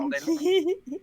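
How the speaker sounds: put-on high, loud, drawn-out French accent. Actor answering a game audition, French accent. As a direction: show off a hammed-up French accent. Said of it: "Can you do a French accent?".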